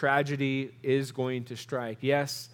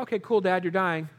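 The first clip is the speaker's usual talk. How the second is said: higher-pitched, blithe mock acceptance; mock nonchalance; 4 semitones higher than usual. Imagined son answering his dying dad, mock nonchalant. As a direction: brush it off with feigned cool.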